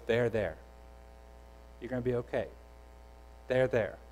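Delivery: soft, low, gentle reassurance; soothing. Retold or imitated. The Spirit comforting the Son, soft low reassurance. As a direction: hush him tenderly.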